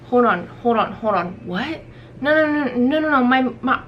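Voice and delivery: high rising no no no in alarm; panicked protest. Retold or imitated. Refused by the security guard, a high panicked protest. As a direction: protest in a rush of disbelief. Reacting to being refused move-in.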